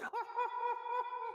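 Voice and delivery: soft squeal of laughter; high giggle tailing off; high-pitched laugh. Real, not acted. Co-host laughing after his falsetto impression, high soft giggle.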